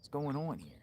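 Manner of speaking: hushed, breathy disbelief under the breath; whispered aside. Retold or imitated. Vlogger reacting to the screaming lady, in a whisper. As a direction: whisper it like you can't believe it. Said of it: "I'm like".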